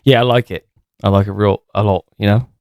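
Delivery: put-on British lad accent, bruv; mock British geezer voice. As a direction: play a cocky British wrestler. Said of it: "trying to sound, like, British".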